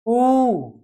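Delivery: ऊ held long; long vowel oo. Shown as a demonstration. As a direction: stretch ऊ to double length. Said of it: "और यहाँ पे". (लंबा ऊ)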